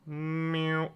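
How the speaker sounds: high, held cat imitation; cat meow. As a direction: mew like a cat.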